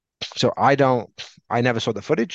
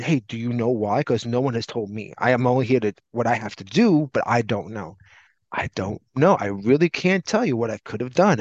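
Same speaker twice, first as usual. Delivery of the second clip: imitating a rehearsed, monotone denial; mock a scripted plea of ignorance. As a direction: recite it like a memorized excuse. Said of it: "In that monotone voice, like it was rehearsed".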